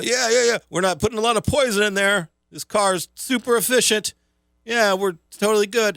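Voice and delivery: high, loud comic computer voice; computer impression. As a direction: play a computer eagerly fooling the tester. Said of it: "doing an impression of the computer talking".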